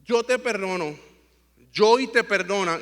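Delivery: measured, unhurried granting of pardon; retold forgiveness. Father retells forgiving his son after the fall, measured reassurance. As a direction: forgive him, phrase by phrase. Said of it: "Y yo le dije, "Papi".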